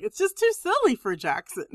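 giggling out the words; laughing through the quote. Retold or imitated. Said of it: "I was like".

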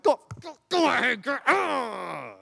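loud, high hollering cheer; retold cheering. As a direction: holler her on, breaking into a yell.

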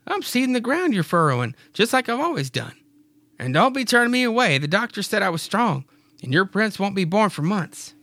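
high southern belle voice; Mary's voice. Acted. Mary insisting on helping Clyde, in a southern belle voice. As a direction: stand your ground sweetly.

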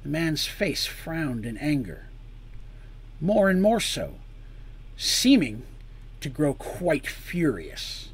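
measured dramatic storytelling; story narration. A narrator's reading. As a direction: narrate the scene deliberately, pausing between phrases.

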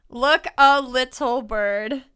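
slow, measured verse reading; slow improvised poem; haiku recital. Pretend. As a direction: recite it word by word. Composing a haiku aloud, reciting it.

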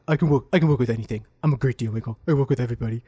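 lightly voiced Trump, jaw pushed out; Trump impression. Host playing Trump bragging, a light jaw-out impression. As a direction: boast like a deal maker with the jaw out. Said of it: "jaw out".

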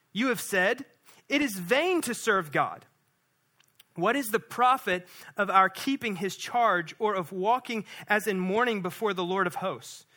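measured, slowed public reading of the text; scripture reading. Acted. Pastor reading Malachi aloud to the standing church. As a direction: read it out as sacred word.

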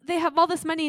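loud, high desperate plea; retelling a pastor's anguished plea to God; crying out to God. Retold or imitated. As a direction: cry out to God over the mansions. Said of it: "And he's crying out".

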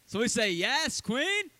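loud, high call for the congregation; hyped-up call to repeat yes queen; call and response. Shown as a demonstration. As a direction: lead the crowd in a call-back.

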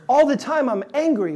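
a touch of acted anger about always being angry; mock exasperated. Listener venting anger.

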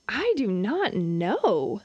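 slow, drawn-out "I do not know"; slow puzzled child. Retold or imitated. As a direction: drag each word like a puzzled kid.

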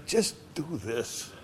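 put-on soft, tempting murmur of the old man; sly hushed temptation; mock whisper. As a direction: coax it quietly, like a voice in the ear. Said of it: "He's whispering in your ear".

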